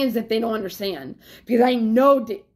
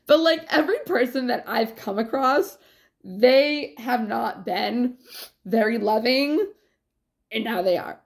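ordinary talk

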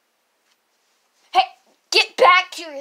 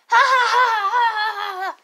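mocking laugh; 5 semitones higher than usual. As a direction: laugh at him to his face.

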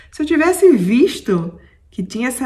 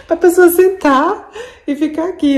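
excited; 5 semitones higher, 10 dB louder than usual. Real, not acted. Excited showing the view.

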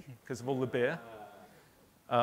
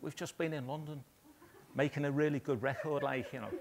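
broad Scouse lilt, quieter; "we've just been in London" in a thick Liverpool accent; mock Liverpool band member bragging; 2 semitones higher, 3 dB quieter than usual. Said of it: "in a Liverpool accent".

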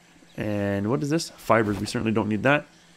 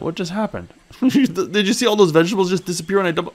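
laughing disbelief; 9 semitones higher, 3 dB louder than usual. Real, not acted. Laughing at vanished vegetables.

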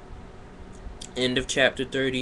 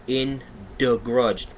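mock dramatic reading. Mock reading, then plain repeat.

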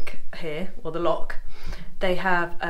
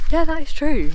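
laughing; 10 semitones higher, 5 dB louder than usual. Real, not acted. Laughing at partner's remark.

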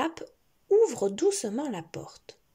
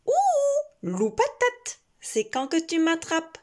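shouting; 7 semitones higher, 4 dB louder than usual. Acted.

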